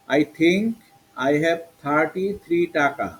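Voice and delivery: "think" and "thirty-three" with aspirated t. Shown as a demonstration. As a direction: read slowly, "thirty-three" starting each part with থ. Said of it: "এখানে হলো সব থ".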